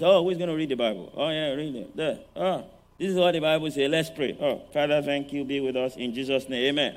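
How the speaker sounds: rushed, careless mock prayer, fast; hurried devotion. Preacher mocking a parent rushing family devotions, fast and careless. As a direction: tear through it like you're late for work. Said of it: "They know you just".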